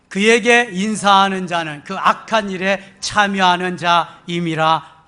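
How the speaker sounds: measured, emphatic Bible recitation; steady, declamatory reading aloud; scripture reading. Real, not acted. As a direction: read the verse out firmly for the congregation. Reads scripture with congregation.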